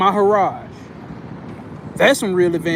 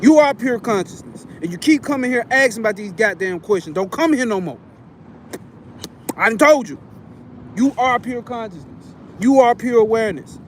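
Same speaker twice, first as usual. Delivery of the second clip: lightly voiced drunk old uncle, higher; mumbling tipsy uncle, slightly raised; drunk toothless uncle; 3 semitones higher than usual. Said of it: "He talk like your old drunk uncle with no teeth".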